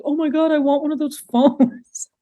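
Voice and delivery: high, far-off mock girly gush, laughing; gushing nineties girl. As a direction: squeal like a kid wanting a toy.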